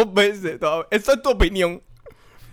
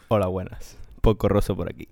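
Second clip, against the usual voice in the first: mustache twirling villain; 10 semitones lower than usual. Acted. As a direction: greet like a scheming villain. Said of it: "la voz de nada más y nada menos que Porco Rosso".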